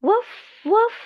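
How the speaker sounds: short, playful woofs; dog bark. Pretend. Teacher confirming the answer for a child, dog bark. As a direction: imitate a dog with two separate barks. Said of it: "the dog says".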